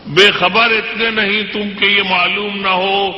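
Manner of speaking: measured, declamatory poetry recital; stately nazm recitation. Acted. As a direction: recite each couplet with weight. Recites poem stanza.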